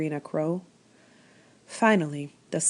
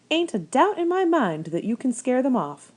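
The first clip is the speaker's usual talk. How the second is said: put-on old country woman; 7 semitones higher, 4 dB louder than usual. A narrator's reading. Old lady speaks to rabbit.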